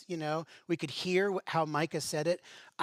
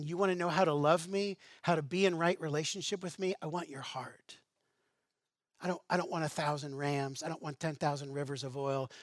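tender invitation; 4 dB quieter than usual. Acted. God inviting the people.

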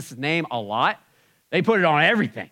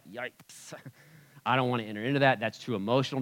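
awkward coworkers; 5 dB quieter than usual. Retold or imitated. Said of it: "everybody in the office is like".

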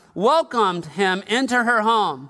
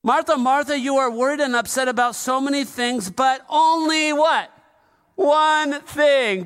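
forceful preacher voice; 3 semitones higher than usual. Shown as a demonstration. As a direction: press it home like a sermon. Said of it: "I know what voice I would use".

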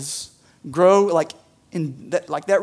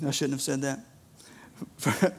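much softer and slow, under the breath; sheepish aside; 4 semitones lower, 10 dB quieter, much slower than usual. Real, not acted. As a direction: take it back under your breath. Embarrassed aside after remark.

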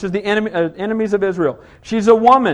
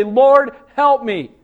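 cry for help; 4 semitones higher, 4 dB louder, much slower than usual. Acted. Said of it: "fall on my face and say".

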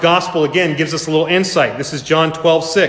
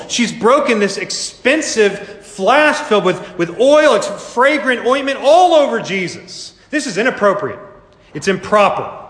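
higher, indignant tut-tutting; scandalized disciple; 5 semitones higher than usual. Pretend. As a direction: play a shocked, prim onlooker.

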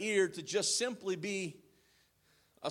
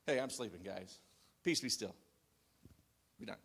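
low, soft, offhand just-woke-up voice; sleepy, casual; 10 semitones lower, 10 dB quieter, faster than usual. Retold or imitated. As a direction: mumble it like someone disturbed in his sleep. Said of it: "I think he just walked up".

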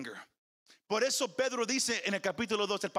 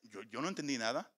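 clueless reader; 8 semitones lower, 4 dB quieter, faster than usual. Retold or imitated. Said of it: "Muchos pueden leerla y".

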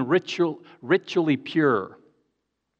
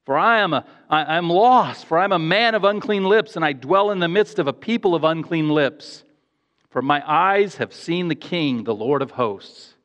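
Isaiah crying out; 2 semitones higher than usual. Retold or imitated. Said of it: "he cried out".

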